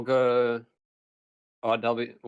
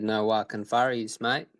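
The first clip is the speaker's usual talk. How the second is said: casual mock Australian, rising on "mate"; put-on Australian accent. Repeating the slang for a puzzled friend, put-on Australian accent. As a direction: repeat it in your pretend Aussie accent. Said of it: "I just put that accent on".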